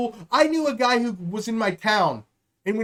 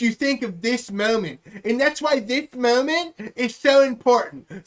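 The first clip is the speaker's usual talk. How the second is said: rambling politician speech. Retold or imitated. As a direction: drone on about the moment like an empty politician. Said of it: "you sound just as dumb as he does".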